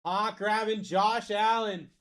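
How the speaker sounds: slow, stretched-out pick announcement; announcer call. Real, not acted. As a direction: draw out the name for the crowd. Live break host announces a pick.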